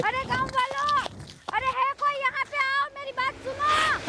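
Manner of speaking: distant call. Acted. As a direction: call from far away across the village. Calling heard from afar.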